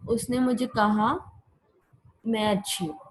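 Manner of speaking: "उसने मुझे कहा", a break, then "मैं अच्छी हूँ"; pause after kaha. Shown as a demonstration. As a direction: let a comma-gap fall after "कहा". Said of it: "के बाद एक कॉमा आएगा".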